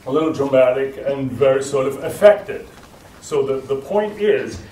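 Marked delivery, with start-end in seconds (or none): 0.1-2.7 lowered larynx, dramatic and affected; theatrical voice. Shown as a demonstration. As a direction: speak with the larynx sunk, theatrical. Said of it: "my voice sounds very theatrical".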